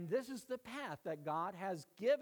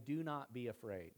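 low, calming quote; gentle reassurance; 6 semitones lower than usual. Retold or imitated. Jesus to his frightened disciples, gently reassuring.

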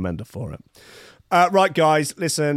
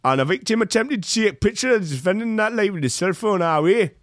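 raised, lightly done Miami accent; 7 semitones higher than usual. Shown as a demonstration. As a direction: read the report in a Miami accent. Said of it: "I'll do the Miami accent".

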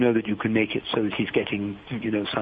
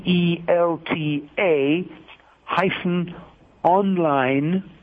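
slow web address read-out, item by item; spaced-out, deliberate spelling for note-takers; careful dictation; 3 semitones higher, slower than usual. Real, not acted. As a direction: dictate slowly with pauses between parts.

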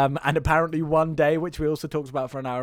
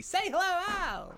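high showy call; 6 dB quieter than usual. Acted. Calling co-host in.

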